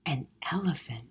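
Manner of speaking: put-on breathy awed whisper of a stunned boy; hushed, stunned whisper. A narrator's reading. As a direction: barely breathe the word elephant. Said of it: "whispered Peter".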